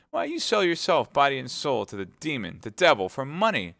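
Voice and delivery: wife's anger. Acted. Wife berating her greedy husband for selling out to the cardinal, rising angry scorn. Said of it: "who recoiled before this conjugal anger".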